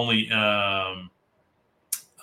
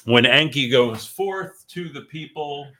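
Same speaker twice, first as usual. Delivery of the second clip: movie trailer voice; 5 semitones higher, 6 dB louder than usual. Shown as a demonstration. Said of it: "the movie voice".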